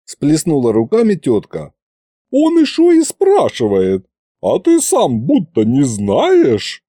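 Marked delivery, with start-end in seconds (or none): 2.3-6.8 put-on high, loud old-woman scolding; aunt berating Fedya, high and loud; scolding shriek. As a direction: let fly at him indignantly.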